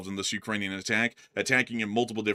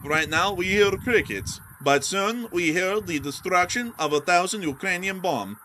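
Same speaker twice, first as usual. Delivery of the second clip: dramatic announcer; 7 semitones higher, 4 dB louder than usual. Pretend. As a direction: play it like a movie trailer.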